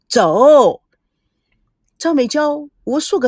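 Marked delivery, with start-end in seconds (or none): 0.1-0.8 loud, curt order; angry command. A narrator's reading. Brother glares and orders his sister out, loud angry command. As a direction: bark one word at her. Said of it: "为怒地瞪着美娇".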